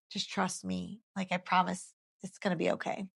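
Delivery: soft, gentle voicing of God's comfort; reassuring. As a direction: hush it like a gentle promise. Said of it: "reassuring me".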